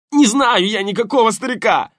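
high loud thug shout, denial under pain; desperate shout. Acted. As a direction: yell it out as the arm bends. Повтор под болью. (отчаянный крик)

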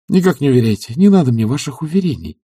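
lively brisk refusal. A narrator's reading. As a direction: cut him off with spirit. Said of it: "с живостью сказала она".

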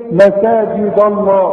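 مساجد الله with the dal thickened toward ضا; heavy dal before Allah. Shown as a demonstration. Teacher shows how the dal thickens next to Allah. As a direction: let the dal of مساجد darken into ضا. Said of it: "ضا، ضا".

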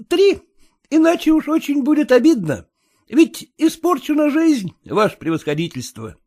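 stubborn Kutsin. A narrator's reading. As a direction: dig in, plead your loss. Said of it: "упрямился Куцин".

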